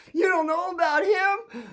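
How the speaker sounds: high, loud, drawn-out disbelief; incredulous friend. Retold or imitated. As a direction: act out a friend who can't believe you don't know. Friend acts shocked at his question.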